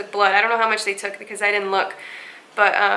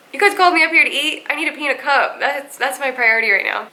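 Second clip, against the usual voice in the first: exasperated protest; 4 semitones higher than usual. Retold or imitated. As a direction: protest in disbelief that they want you to eat now. Exasperated retelling to staff.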